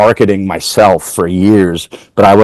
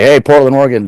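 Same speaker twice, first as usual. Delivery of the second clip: calling out to crowd; 5 semitones higher, faster than usual. Retold or imitated. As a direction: hype up the audience. Greeting the crowd on stage.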